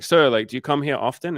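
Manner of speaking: high, loud imitation of an eager suitor; mock chat-up. Imitating a man who ignored her refusal, eagerly chatting her up. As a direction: press on with an oblivious pickup line.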